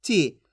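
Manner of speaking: brief, low falling "ची"; "ची" kept short as a reading model; short i sound. Shown as a demonstration. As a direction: say "ची" with a short vowel, dropping in pitch. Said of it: "इसके उच्चारण में कम समय लगेगा".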